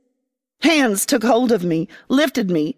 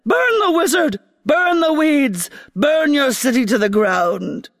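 commanding queen; 4 semitones higher than usual. Acted. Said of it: "The queen said".

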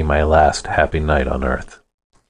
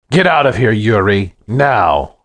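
angry command; 3 semitones higher than usual. Acted. Stan orders Yuri out.

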